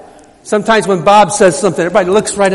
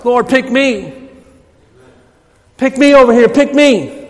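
eager plea; 2 semitones higher than usual. Shown as a demonstration. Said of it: "That's the way we need to be".

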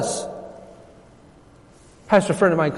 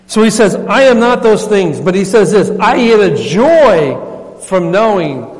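louder, slow preaching climax; louder, drawn-out sermon climax; 4 dB louder, slower than usual. Acted. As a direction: proclaim it to the church. Preaching climax on John's joy.

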